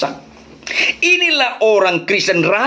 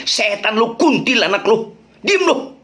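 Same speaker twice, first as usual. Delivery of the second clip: mock snap at the wife, rising high on diem lo; a hammed-up husband telling his wife to shut up; angry husband; 5 semitones higher than usual. Husband snapping back at his nagging wife, mock angry. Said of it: "Dia bilang istrinya".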